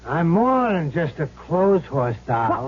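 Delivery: a possessed man's slow, cocky line to a woman; Handsome Harry. Acted. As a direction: lean into a hint of the dead gambler's swagger. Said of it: "you sounded just like Handsome Harry".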